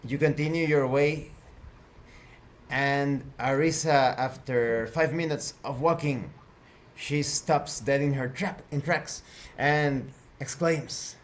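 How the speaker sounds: measured, deliberate scene setting; game master narration. Acted. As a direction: narrate with drawn-out pauses between phrases.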